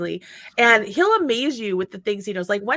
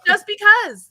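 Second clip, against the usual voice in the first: excited echo; 9 semitones higher, 10 dB louder, slower than usual. Real, not acted. Echoing friend's phrase.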